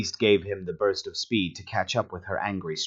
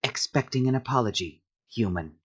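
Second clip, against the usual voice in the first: sneering; 2 semitones higher, 3 dB quieter than usual. A narrator's reading. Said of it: "then sneered at her".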